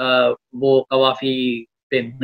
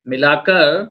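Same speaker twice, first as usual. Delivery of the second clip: romantic shayari. Acted. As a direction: draw out each line of the couplet. Poet recites a love couplet.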